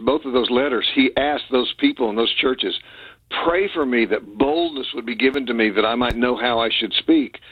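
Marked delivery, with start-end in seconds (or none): none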